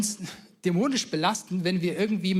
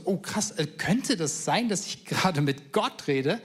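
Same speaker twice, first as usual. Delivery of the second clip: stunned realization. Retold or imitated. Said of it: "Gideon wird so richtig stutzig".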